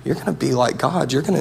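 quietly reasoning, mildly coaxing; friendly tempter. Acted. The enemy reasoning with Adam and Eve in the garden, friendly coaxing. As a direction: lightly play a friend softly talking someone round. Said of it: "He came as a friend".

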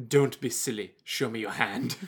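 low, soft put-on voice; Polnareff. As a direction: brush it off softly. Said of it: "Polnareff's all like".

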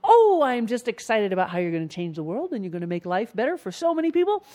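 gushing, excited praise; acted supporter enthusiasm; cheering on. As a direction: cheer them on with a swelling start and lifted finish. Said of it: "people who are cheering you on".

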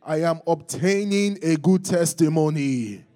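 high, loud congregational call; loud declaration. Shown as a demonstration. Preacher leading the church's declaration, loud and high. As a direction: declare it out loud for all to echo.

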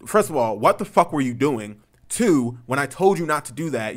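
loud, indignant telling-off; heated dressing-down; retold angry scolding. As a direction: count off the faults forcefully.

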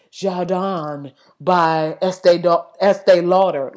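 slow, drawn-out commercial read; lightly spoof a perfume-ad voiceover; mock perfume ad. Mimics a perfume commercial line.

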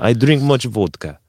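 light mock Russian accent; lightly voiced Russian accent. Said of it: "my confused Russian accent".

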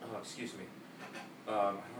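hiccuping mid-sentence; talking through the hiccups. Real, not acted. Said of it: "Sorry, I have the hiccups now".

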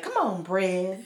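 slow soothing Tabitha voice; drawn-out soothing encouragement; Tabitha imitation. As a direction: Tabitha cheering on the bread. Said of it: "Tabitha's like".

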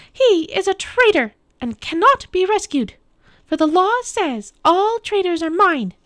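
very high, loud witch's tirade; screaming witch. A narrator's reading. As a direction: accuse and demand in a high, forceful witch voice. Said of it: "the witch screamed at Aslan".

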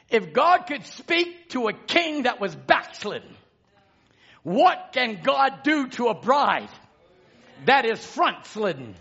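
slow, weighty preacher's proclamation; emphatic preaching. Acted. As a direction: preach it phrase by phrase with long drawn words. Preaches to a congregation.

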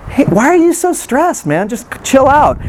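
lightly imitating a laid-back friend brushing off stress; mock breezy advice. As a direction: play the casual dismissive friend. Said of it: "it just makes me more enraged".

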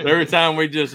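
ordinary talk, nothing marked

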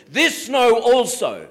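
This know also as a firm command; urgent command. Shown as a demonstration. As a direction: say it as an urgent order. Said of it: "an urgency when he says".

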